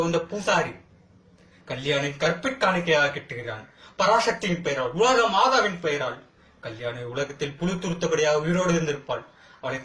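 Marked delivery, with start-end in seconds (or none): 4.0-6.2 rising, ringing rhetorical repetition; indignant invocation. Acted. Accused exposes the priest's misuse of the goddess's name, indignant.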